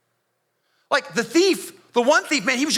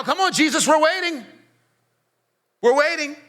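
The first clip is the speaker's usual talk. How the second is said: taunting, sing-song jeer, a bit higher; mocking leaders; 4 semitones higher than usual. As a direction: sneer it out like a mocking crowd leader. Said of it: "they started mocking him".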